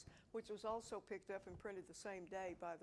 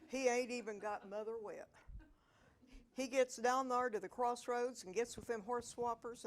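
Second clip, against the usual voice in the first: loud, rollicking Ozark hillbilly brogue, louder; Ozark hill dialect; 2 semitones higher, 6 dB louder than usual. Acted. Reading Aunt Matt's rant about Clem to the audience, loud Ozark dialect. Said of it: "No, say it like this".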